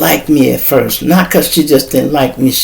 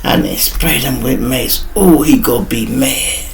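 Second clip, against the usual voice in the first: mock scared; 3 semitones lower, 7 dB quieter than usual. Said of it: "She is scared to death".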